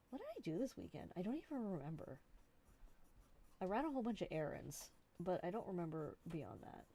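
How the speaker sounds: talking around a pen; pen in teeth. Real, not acted. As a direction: speak with a pen in mouth. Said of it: "I just put my pen in my mouth".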